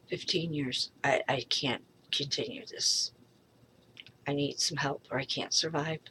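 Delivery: barely holding it together, pleading quietly; a hushed, hopeless plea; real despair. Real, not acted.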